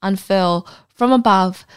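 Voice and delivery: measured read-aloud storytelling voice; story narration. Acted. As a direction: read the anecdote aloud, composed. Reads out an anecdote.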